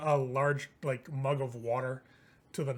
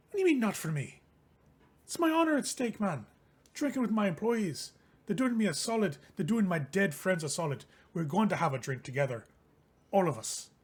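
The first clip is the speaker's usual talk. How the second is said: higher, offended protest; indignant sellsword; 4 semitones higher than usual. Acted. Liam protesting to Lammas, indignant. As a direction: puff up over your honor.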